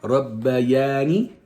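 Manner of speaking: "Rabbayani" very slow, every syllable separate, rising at the end; slow model recitation. Shown as a demonstration. Mother teaching her son the dua, very slow clear recitation. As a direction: stretch "Rabbayani" out so the child can follow. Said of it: "you're gonna repeat the dua after me".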